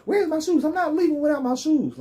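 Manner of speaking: hammed-up high Trump voice; mock Trump whine. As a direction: play Trump as a panicky goof fussing over his shoes. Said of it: "He's like".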